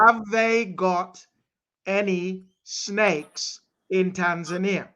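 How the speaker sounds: slowed down for a bad line; slow and clear. Real, not acted. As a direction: spell it out slowly, word by word. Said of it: "I can't hear".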